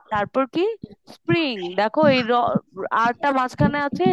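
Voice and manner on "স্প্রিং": স্প্রিং with the middle r sounded, spring; r pronounced. Shown as a demonstration. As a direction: keep the r in স্প্রিং. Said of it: "স্প্রিংটা কিন্তু আর আমরা উচ্চারণ করছি". (স্প্রিং, মাঝের র উচ্চারণ করে)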